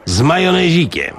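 a high, hammed-up fussy order; high mock voice. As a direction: squeak out the dainty order in a high voice. Mok orders sandwich.

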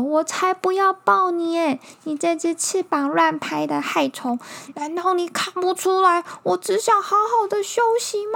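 high, loud grumpy bear voice. Acted. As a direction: shout it like a cranky bear. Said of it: "大熊好生气".

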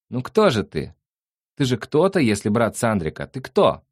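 high, thin questioning; thin little voice. A narrator's reading. The creature questions Nick from behind, in a thin high voice. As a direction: pipe up in a small high voice. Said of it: "тоненьким голосом вопрошало сзади существо".

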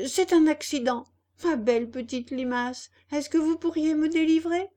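stuck puppet begging the slug for help; pleading puppet. Acted. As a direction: sweet-talk the slug into helping.

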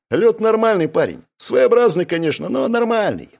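light, amused reassurance; smiling. A narrator's reading. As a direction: smile through the words. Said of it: "улыбнулся я".

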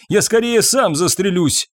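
high, desperate outburst; wailing. A narrator's reading. Husband tells wife he would sooner shoot himself, wailing. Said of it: "взвыл Фабьен".

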